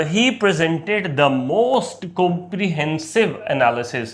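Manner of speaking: very slow example sentence; slow teacher dictation. Shown as a demonstration. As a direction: read each word out for the class. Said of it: "For example".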